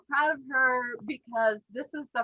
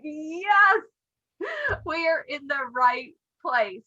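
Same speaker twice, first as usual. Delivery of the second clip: tearful; 5 semitones higher than usual. Real, not acted. Sponsor praising her friend's growth, crying. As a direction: voice catching with real tears. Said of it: "I'm gonna start crying again".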